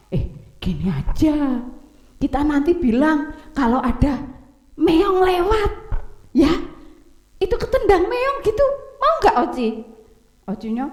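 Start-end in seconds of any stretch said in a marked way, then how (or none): 0.1-9.7 put-on lightly high child's voice, coaxing; scheming big brother. Oni coaxes Oci to blame a cat, high coaxing child voice. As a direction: coax your little brother into a fib.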